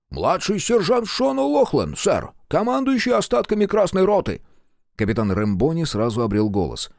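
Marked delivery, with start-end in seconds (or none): 0.1-4.4 put-on Irish accent. A narrator's reading. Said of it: "с махровым ирландским акцентом". (густой ирландский акцент)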